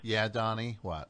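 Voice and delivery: weary, sarcastic prompting; dripping sarcasm. Acted. Host indulging a tiresome caller, sarcastic. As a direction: humour him with obvious sarcasm. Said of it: "the sarcasm just dripping off".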